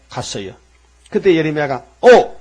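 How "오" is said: much higher, loud 오!; shocked cry. Acted. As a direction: burst out in alarm. Jeremiah exclaiming. (속은 것을 알아챈 예레미야의 외침)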